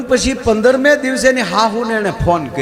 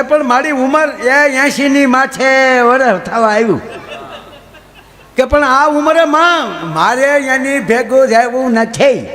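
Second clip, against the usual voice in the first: put-on raised, laughing old granny; lightly voiced complaining old woman; mock old lady pleading to the judge; 4 semitones higher than usual.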